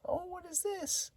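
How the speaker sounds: very high, breathy whisper; imitating the woman's excited greeting in a high whisper; eerie whispered greeting. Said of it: "she was excited".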